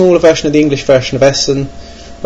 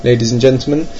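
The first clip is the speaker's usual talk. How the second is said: mock grand orator. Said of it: "It is my language".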